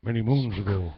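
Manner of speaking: a hint of a Native American chief voice; Native American accent. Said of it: "this is my Native American, uh, voice".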